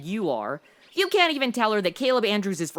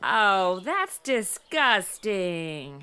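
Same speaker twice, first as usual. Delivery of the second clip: disgusted; 3 semitones lower, much slower than usual. Acted. Shown a dead coyote.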